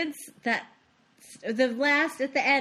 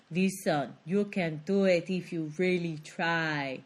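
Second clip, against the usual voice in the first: bad Arnold impression; 4 semitones lower, slower than usual. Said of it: "That was really bad".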